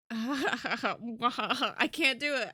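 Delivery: loud, slow, laughing through the words; giggling too hard to get it out. Real, not acted. Laughing at own attempt.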